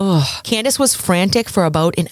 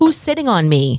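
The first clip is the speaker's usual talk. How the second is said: ordinary delivery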